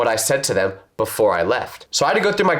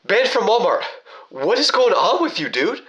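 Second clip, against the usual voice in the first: higher, exasperated call-out; confronting; 6 semitones higher than usual. Retold or imitated. Catching up to the stranger, demanding in a raised voice. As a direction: demand answers, pitched up.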